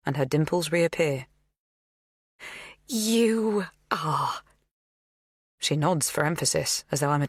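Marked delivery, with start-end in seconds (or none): 2.9-4.4 cajoling whisper. A narrator's reading. Magda cajoling.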